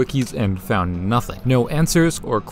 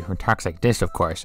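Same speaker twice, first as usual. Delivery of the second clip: a lightly put-on Waluigi; a goofy low Waluigi impression; 5 semitones lower, 3 dB quieter than usual. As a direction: voice the tall rival with a lower, altered tone. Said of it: "then you got Waluigi".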